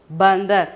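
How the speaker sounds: "bandar" joined, with an n before the d; pronunciation of bandar. Shown as a demonstration. Teacher models the word for monkey, "bandar" as a joined word. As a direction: run it together as "bandar". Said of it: "The pronunciation is bandar".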